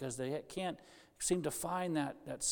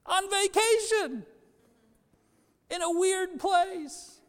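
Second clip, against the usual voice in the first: amused emphasis; 14 semitones higher, 6 dB louder, slower than usual. Acted. Pastor mocks going to church on vacation.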